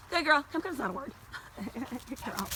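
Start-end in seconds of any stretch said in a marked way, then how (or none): 0.1-0.4 high bright praise for the dog. Real, not acted. Praising dog after recall.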